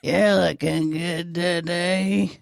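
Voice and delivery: slow ventriloquist line; talking with mouth closed. Shown as a demonstration. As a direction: say it slowly without moving lips. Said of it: "you can say it without moving your mouth".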